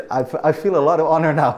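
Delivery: fast words broken by laughter; laughing. Real, not acted. Host flattered by the guest's praise, talking through a laugh.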